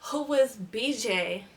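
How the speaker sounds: slow, pressing demand; hostile. Retold or imitated. Confronting her sleeping boyfriend, slow hostile demand. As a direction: repeat it slowly with hostility. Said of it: "All hostile".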